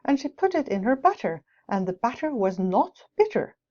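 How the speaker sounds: brisk, crisp tongue twister reading; tongue twister recitation. Shown as a demonstration. Teacher performing a tongue twister for the class, brisk. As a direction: rattle off the twister cleanly. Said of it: "a tongue twister".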